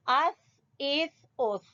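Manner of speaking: اس ending with tongue tip at the front teeth edges; touch tongue tip to front teeth for the end of اس; tongue-tip tha. Shown as a demonstration. Teacher showing the makhraj, tongue-tip tha ending اس. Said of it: "زبان کی نوک اور سامنے والے دو دانتوں کے سرے".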